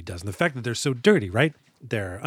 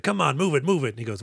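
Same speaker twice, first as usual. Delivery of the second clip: harsh barking commands; 6 semitones higher, faster than usual. Retold or imitated. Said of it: "things that a phys ed coach can yell at".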